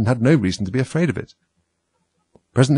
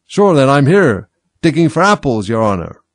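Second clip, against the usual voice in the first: loud, high servant answering; new character voice; 6 semitones higher, 8 dB louder than usual. A narrator's reading. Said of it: "a voice she had never heard before".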